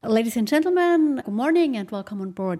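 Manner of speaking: polished cabin crew announcement; flight announcement. Shown as a demonstration. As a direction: recite it like a flight attendant on board. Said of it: "ihre Bordansagen kann sie aber immer noch auswendig".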